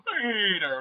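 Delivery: drawn-out name call, sliding down; mimicked exasperated call; imitating a cartoon clip. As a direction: stretch the first syllable of the name. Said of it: "a video of him going".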